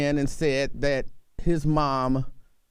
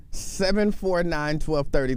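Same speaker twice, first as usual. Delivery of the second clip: slow number read. Acted. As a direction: read the phone number slowly. Reading call-in number.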